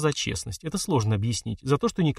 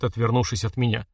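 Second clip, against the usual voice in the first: ordinary delivery, nothing marked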